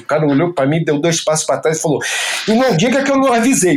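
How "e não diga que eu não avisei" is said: the local's parting threat, pitched high and quick; higher, fast mock warning. Local warns the surfer while backing off: high, fast mock threat.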